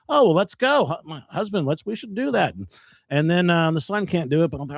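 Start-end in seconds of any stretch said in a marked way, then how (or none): 0.1-2.5 imitating an eager, high-pitched invitation; eager suggestion. Wife urges husband to come to a show, eager suggestion. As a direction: pitch it up as a keen wife's quoted idea.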